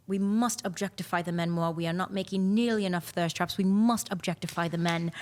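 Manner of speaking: lightly done British accent, mock stiff; a mild stab at a British sports team owner. Team owner's words retold in a mild mock British accent. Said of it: "I'm gonna do it in my best British accent".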